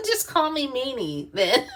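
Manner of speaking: laughing through the words, high and amused. Real, not acted. Laughing at being called mean.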